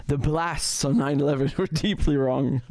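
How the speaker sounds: slow, sarcastic reading breaking into a laugh; mocking parody. Streamer mocks the tweet's wording to his viewers, laughing. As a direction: parody the tweet and crack up mid-line. Mock rewording of Warren's tweet.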